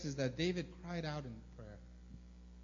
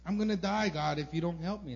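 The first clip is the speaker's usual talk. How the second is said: pleading cry; 4 dB louder than usual. Retold or imitated. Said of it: "That's what he sounds like".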